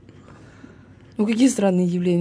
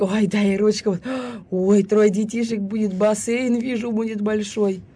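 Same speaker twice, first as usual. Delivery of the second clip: fortune teller; 3 semitones higher, slower than usual. Retold or imitated. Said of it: "Это которые ручка".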